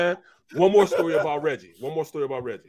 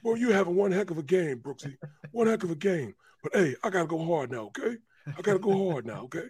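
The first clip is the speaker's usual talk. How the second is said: imitating Reggie. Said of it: "And he talked like this".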